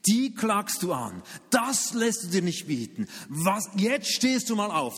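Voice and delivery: slow, rousing inner call to sue; mock fighting spirit. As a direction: egg yourself on to fight back. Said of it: "Du musst für deine Gerechtigkeit kämpfen".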